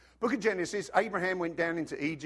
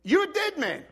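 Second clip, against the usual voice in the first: God's booming threat; 14 semitones higher, 8 dB louder than usual. Retold or imitated. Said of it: "and said".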